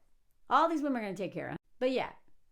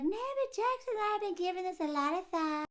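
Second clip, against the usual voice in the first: earnest daughter; 8 semitones higher than usual. Retold or imitated. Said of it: "And then she's like".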